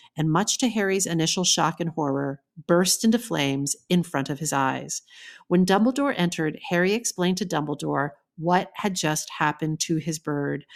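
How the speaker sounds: normal talking voice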